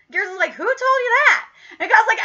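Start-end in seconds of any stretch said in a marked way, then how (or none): 0.5-1.5 higher, startled comeback; mock indignant question. Retelling Garrison's reply to Kyle, mock indignation. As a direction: imitate someone caught out and affronted.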